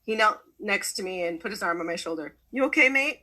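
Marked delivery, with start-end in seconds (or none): 2.5-3.2 a light Australian mate, higher and louder; lightly voiced Australian checking in; Australian accent. Pete kneels to ask the nervous speaker, in a light Australian accent. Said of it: "the Australian accent".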